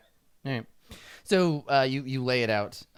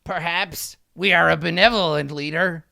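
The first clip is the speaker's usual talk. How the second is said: higher, louder regal musing; imperious kobold king; 4 semitones higher, 7 dB louder than usual. Acted. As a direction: play the magnanimous monarch. Kobold king answers petition.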